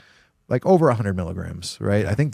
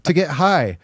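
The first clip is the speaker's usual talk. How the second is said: higher, fed-up rhetorical rant; retold exasperated rant; 6 semitones higher, 3 dB louder than usual. Ranting to his friend about dabs, higher fed-up disbelief. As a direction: throw up your hands at the whole science experiment, pitched up.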